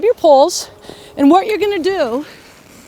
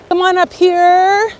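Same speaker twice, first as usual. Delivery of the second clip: calling up the slope, louder and higher; cheery ski instructor shouting; 4 semitones higher, 4 dB louder than usual. Real, not acted. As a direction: cheerfully call them over from a distance. Instructor calls student up slope.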